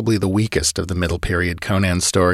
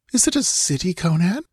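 hardly daring to hope; fearful girl; 11 semitones higher than usual. A narrator's reading. Girl asks Conan about the distant city, high hesitant voice. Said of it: "she whispered".

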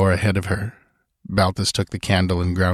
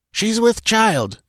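put-on high, slow stern old woman; old woman grunting; slower than usual. A narrator's reading. Stern old frontier woman explaining to Balthus, slow. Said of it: "grunted the old woman".

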